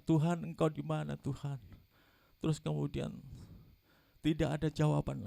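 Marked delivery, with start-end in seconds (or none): 0.1-1.6 mild retold shout to God; retold cry to God. Patient calling out to God from his room, mild retold shout. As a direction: call out to God, holding back. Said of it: "Saya teriak kembali, teriak".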